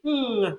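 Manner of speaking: held hum "ng", through the nose; nasal sound demo. Shown as a demonstration. Lecturer demonstrating a nasal sound, held hum. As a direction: sustain the nasal consonant alone. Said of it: "we have this sound".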